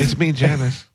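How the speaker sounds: high, breathy mock girl voice; man doing a woman's voice. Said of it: "Is that a girl's voice or you running out of breath".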